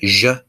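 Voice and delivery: zh as a buzzed "zhuh"; ZH sound. Shown as a demonstration. Teacher showing how Z H is pronounced, ZH sound. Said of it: "Z H is kind of pronounced like".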